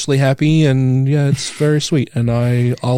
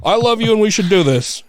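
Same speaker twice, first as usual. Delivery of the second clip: lightly choked up; 8 semitones higher than usual. Retold or imitated. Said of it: "I get all choked up".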